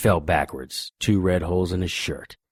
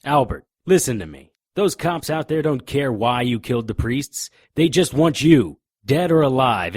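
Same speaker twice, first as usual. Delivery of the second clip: raised, urgent voice pressing a cornered man; urgent plea; 5 semitones higher, 5 dB louder than usual. Acted. Detective urging Albert to drop the knife, raised and urgent. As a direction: push hard to get through to him. Detective pleads with armed killer.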